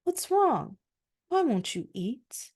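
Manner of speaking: a high, concerned wife's voice; the wife checking on her sulking husband; Jezebel asking. A narrator's reading. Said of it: "came in and asked".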